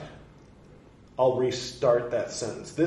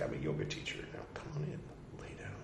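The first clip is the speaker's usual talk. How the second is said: much softer, lower, lulling mock yoga voice; mock hypnotic yoga teacher; 8 semitones lower, 13 dB quieter, much faster than usual. Ex-cult member posing as yoga teacher, soft lulling mock invite. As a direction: lure them in gently, half joking.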